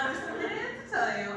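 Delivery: put-on high, very fast girly confession; high rushed confiding. Mimicking how women confide to friends, high rushed. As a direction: rattle it off high and quick. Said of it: "women totally talk like that".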